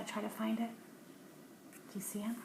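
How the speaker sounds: hushed, unvoiced whisper. Real, not acted. Parent pointing out a hidden creature to a child, whispering. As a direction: lean in and whisper the search.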